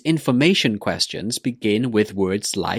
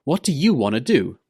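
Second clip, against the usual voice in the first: "What do you wanna do?" with a closing fall; falling intonation; 3 semitones higher than usual. Shown as a demonstration. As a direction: let the final "do" fall. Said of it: "The intonation goes down".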